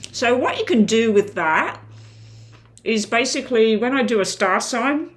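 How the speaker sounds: talking with a mouthful of food; mouth full. Real, not acted. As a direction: speak around a bite of lunch. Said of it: "sorry for talking with my mouth full".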